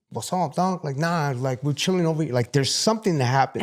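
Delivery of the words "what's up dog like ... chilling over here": East LA throat. Retold or imitated. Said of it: "something that happens to your throat right here".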